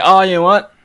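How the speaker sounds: usual speaking voice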